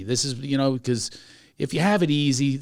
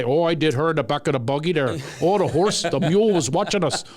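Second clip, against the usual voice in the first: put-on lightly done Amish farmer accent; folksy Amish accent, bragging. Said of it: "I'm doing my Amish accent from Lancaster".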